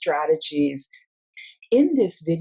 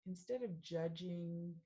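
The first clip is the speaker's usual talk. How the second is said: measured meditation guide with long pauses; guided meditation; 7 dB quieter than usual. Acted. Mindfulness coach leading listeners through a sound meditation, unhurried guiding voice. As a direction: guide them gently into stillness, phrase by phrase.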